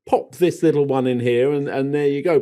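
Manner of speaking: oh sung out high and airy; breezy mock voice. Husband mimics wife's breezy gardening, light and airy. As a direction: mimic a casual dabbler. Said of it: "just, like, says".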